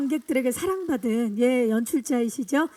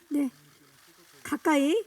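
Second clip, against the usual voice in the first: usual speaking voice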